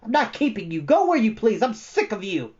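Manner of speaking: high, loud furious scream. A narrator's reading. Bastian screaming at Atreyu before everyone. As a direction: scream him away. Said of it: "Bastian screamed at him".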